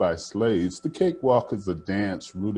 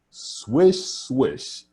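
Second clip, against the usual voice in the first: breathy rising swish of the wind; playful wind swish; swishing wind sound; 4 semitones higher, 4 dB louder than usual. A narrator's reading. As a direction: let the wind sweep past. Sound word read aloud in story.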